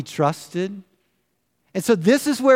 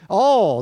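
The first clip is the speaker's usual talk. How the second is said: "All" lifted and said louder, set apart; stress on ALL; 2 semitones higher, 4 dB louder than usual. Shown as a demonstration. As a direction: lean hard on "All" before pausing. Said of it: "The emphasis here is on the word".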